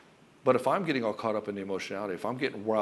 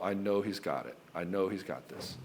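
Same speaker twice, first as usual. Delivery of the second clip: low, soft, reassured; relaxed trust; 4 semitones lower, 5 dB quieter than usual. Retold or imitated. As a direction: imitate a wife calmly trusting her husband. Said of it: "she can relax".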